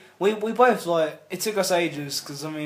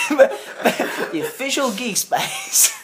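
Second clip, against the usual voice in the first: mock Swedish accent; 8 semitones higher, 6 dB louder, slower than usual. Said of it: "I've gone from German to Swedish".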